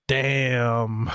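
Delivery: guttural groan. Retold or imitated. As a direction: groan it like taking a hit. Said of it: "there's a very guttural".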